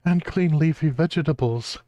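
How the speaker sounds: high, pleading cartoon dog. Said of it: "he goes into this thing about".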